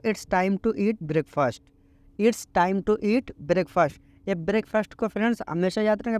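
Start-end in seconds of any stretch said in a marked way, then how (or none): 0.1-3.9 very slow, each English word laid out clearly; slow teaching read. Shown as a demonstration. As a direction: model the sentence slowly for learners. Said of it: "तो उनको आप English में बोलो".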